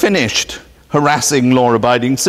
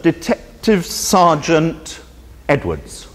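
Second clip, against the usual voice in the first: bored phone answer; slower than usual. Retold or imitated. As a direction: answer the phone like a weary detective. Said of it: "The phone is answered".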